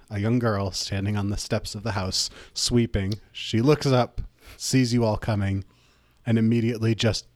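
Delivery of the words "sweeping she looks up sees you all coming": normal talking voice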